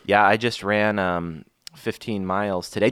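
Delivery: understated mocking impression of a co-host; Chris. Co-host retaliating with his own impression, lightly mocking. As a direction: lightly mimic him, slowing and softening at the end. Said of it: "let me do my impression of Chris".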